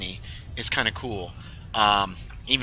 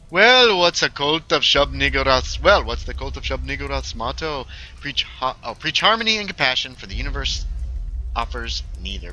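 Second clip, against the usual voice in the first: put-on game character voice; 3 semitones higher than usual. Character explaining the cult's motto, put-on voice. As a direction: play a coven member reciting a motto.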